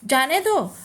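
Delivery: "जाने दो" as its own firm phrase, falling on दो; set off after comma. Shown as a demonstration. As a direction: separate "जाने दो" after a pause, ending in a fall. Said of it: "कोमा है".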